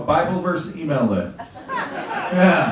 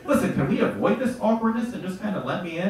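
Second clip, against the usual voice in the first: higher, laughing awkward charm; sheepish greeting; 6 semitones higher than usual. Pretend. Pleading with Jesus at heaven's gate, sheepish. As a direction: sweet-talk your way past him. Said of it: "I'll be like".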